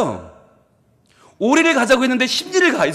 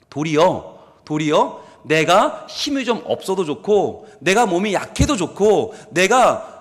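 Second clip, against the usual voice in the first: usual speaking voice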